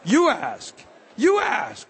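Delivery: called-out command to the crowd; urging shout. Real, not acted. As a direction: shout it as a charge.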